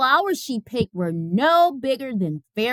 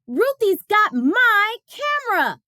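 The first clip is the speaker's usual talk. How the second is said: put-on higher boy's complaint, a touch of crying; upset Martin; 11 semitones higher than usual. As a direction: tell the teacher, close to tears. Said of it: "cried Martin".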